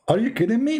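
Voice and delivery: high, stunned what; shocked disbelief. Retold or imitated. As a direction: gasp it out in disbelief. Son learns bride is sister.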